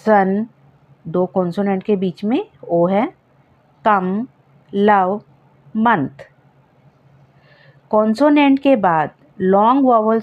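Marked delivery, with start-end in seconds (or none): 0.1-6.3 सन कम लव मंथ with a short a. Shown as a demonstration. Teacher showing students o words said with a short a. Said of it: "अ की sound होती है".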